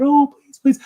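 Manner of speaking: very high, pleading, with a gasp, then slow and loud; a frantic lady spotting her bird outside; woman at the train window, begging, then amazed; desperate woman. Acted. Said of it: "And the woman leans out".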